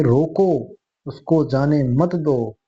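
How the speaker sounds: "रोको" set apart, then slow "उसको जाने मत दो"; pause after रोको. Shown as a demonstration. Teacher explaining the changed meaning to students, pausing after रोको. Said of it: "इसका अर्थ हो जाएगा कि".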